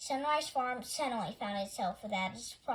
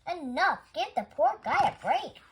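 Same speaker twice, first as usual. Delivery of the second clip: loud; 5 semitones higher, 6 dB louder than usual. Acted. Animal defending Clyde.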